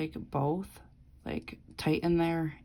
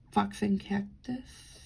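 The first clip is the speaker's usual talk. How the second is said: whispered name; 3 semitones higher, slower than usual. Real, not acted. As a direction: whisper Fox and Cactus under the breath. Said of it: "rereads brand name in whisper".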